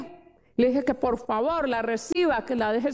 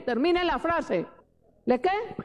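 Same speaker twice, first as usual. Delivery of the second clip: higher-pitched insistent prompting; prodding for answers; 3 semitones higher than usual. Real, not acted. Preacher urging listeners to finish the phrase, prodding. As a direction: press the crowd to finish the sentence.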